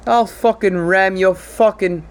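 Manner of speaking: lightly hammed-up angry Australian; botched Australian accent. Prime minister threatening Biden, mock-angry bad Australian accent. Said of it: "I think we're both doing, like, some sort of Irish".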